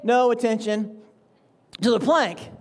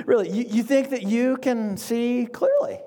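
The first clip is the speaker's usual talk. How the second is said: calm amused Jesus. Acted. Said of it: "imagining Jesus calmly smiling and saying".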